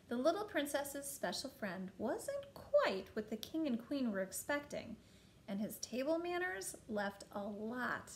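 put-on animated reading to a child, swooping pitch; storybook narration. A narrator's reading.

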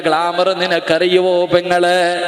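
loud, sing-song sermon cadence; full-force preaching. Acted. Preacher telling Nafeesa's story to the women, loud sing-song preaching.

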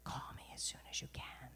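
breathless secret whisper, barely voiced; hushed urgent phone whisper. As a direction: whisper it so no one else hears. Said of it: "she said in a whisper".

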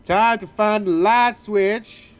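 put-on slow country-accented reading; Southern accent. Player reads the character's line to a friend, Southern accent. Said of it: "the southern accent".

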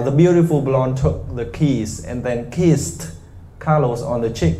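slow, overpronounced reading; slow demo of crisp endings; exaggerated articulation. Shown as a demonstration. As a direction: spit out every consonant. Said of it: "nói làm sao mà nó ướt hết mic".

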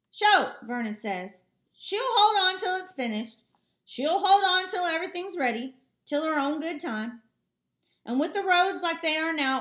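lightly voiced neighbor, sure of himself; Vernon, confident neighbor. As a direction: reassure him like an easygoing neighbor.

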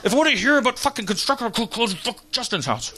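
seething through gritted teeth; hammed-up anger held in the mouth; restrained anger. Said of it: "Because I'm fucking angry".

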